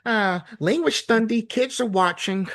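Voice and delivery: Spider-Man voice. Retold or imitated. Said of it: "he's saying".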